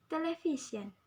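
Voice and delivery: "Television" with VI emphasized, falling after; stress on VI. Shown as a demonstration. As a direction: lean on the VI in "Television". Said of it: "The stress at the V".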